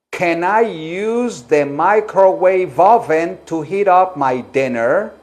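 slow, firm, clearly projected question; projected teacher voice, carefully paced. Shown as a demonstration. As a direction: model it firmly for the class. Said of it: "sino una voz firme".

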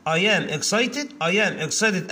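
very slow, word by word; teacher dictating at a crawl; slow dictation. Shown as a demonstration. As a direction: spell it out slowly for the class. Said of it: "سوري يا ولاد".

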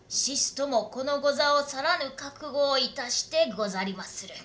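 determined samurai swearing a vow; resolute retainer. Acted. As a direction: stand firm, pressing each line. Retainer vows resolve to lord.

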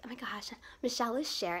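breathless, whispered fangirl gasp; mock-awed teacher, whispered; gushing whisper. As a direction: whisper it like big exciting news. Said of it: "she's like".

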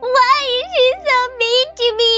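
sobbing. Acted. Alone after the mean girls, sobbing for home. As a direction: cry it out, lost and miserable.

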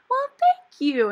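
high, loud, startled thank you; surprised thanks. Retold or imitated. Surprised reply to professor.

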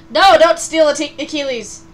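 loud protest through laughter; laughing protest. Real, not acted. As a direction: cry out while laughing. Laughing protest at chat takeover.

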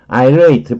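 irate said as eye-RATE, two clear syllables; careful pronunciation. Shown as a demonstration. Teacher warning students to mind the pronunciation, careful eye-rate. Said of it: "발음을 주의해야 돼요".

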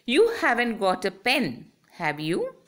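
real question, voice lifting on "have you"; "have you" ends on a clear rise; rising question tag. Shown as a demonstration. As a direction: let "have you" swing up at the end, genuinely asking. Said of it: "the voice goes up".

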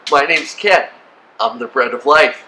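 lightly acted deadpan self-introduction; mock introduction. Someone walks up and says hi, mock matter-of-fact introduction.

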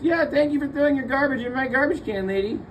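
dripping fake gratitude; sarcastic thanks. Real, not acted. Calling out to the lady who dumped her garbage, sarcastically. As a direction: thank her with mock politeness.

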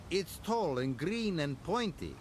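cheeky little engine mocking; teasing Duncan. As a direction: poke fun at Thomas. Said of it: "laughed Duncan".

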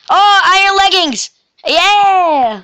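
high, thrilled cry of delight; excited. Real, not acted. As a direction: whoop at the find. Finds armor in game.

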